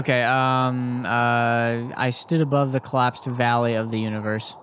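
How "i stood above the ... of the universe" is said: composed retake reading. Acted. Retakes the same line after interruption.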